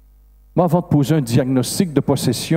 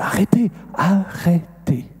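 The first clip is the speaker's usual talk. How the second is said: insistent command; 7 semitones higher, slower than usual. Retold or imitated. Priest stops helpers crying demon.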